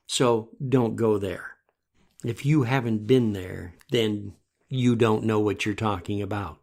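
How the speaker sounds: retold calm, measured firmness. Veteran friend setting a non-veteran straight, very calm. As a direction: put it calmly and deliberately, letting pauses fall. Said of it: "looked at him very calmly and said".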